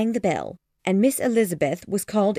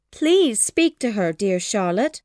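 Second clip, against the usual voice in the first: slow, pleading sad mother; sadly; 3 semitones higher, slower than usual. Acted. Mother to Charlotte, slow sad plea. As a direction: beg her friend mournfully. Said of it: "she added sadly".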